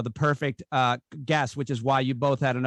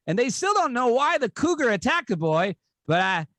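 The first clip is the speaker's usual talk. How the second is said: mock anchor with big upward swoops on key words; halting, singsong joke telling, lightly imitated; Norm Macdonald; 3 semitones higher than usual. Comic retelling a second Weekend Update joke, light anchor impression. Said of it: "Here's the second one".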